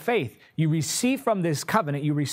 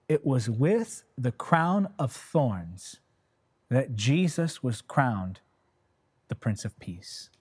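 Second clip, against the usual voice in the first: the Lord speaking; 2 semitones lower, slower than usual. Retold or imitated. The Lord answers the preacher's question, slow and solemn, softening at the end. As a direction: quote the Lord slowly, sinking to a hush. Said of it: "And the Lord spoke to me, he said".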